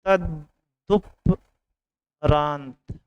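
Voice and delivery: तदुपरांत broken slowly into separate syllables; very slow, spelled-out तदुपरांत; syllable-by-syllable spelling. Shown as a demonstration. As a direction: dictate तदुपरांत piece by piece, with gaps. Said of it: "लिखना सीख लो".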